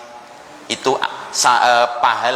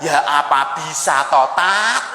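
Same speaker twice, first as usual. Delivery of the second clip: retorting housewife; slower than usual. Retold or imitated. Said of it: "Langsung dibales gitu".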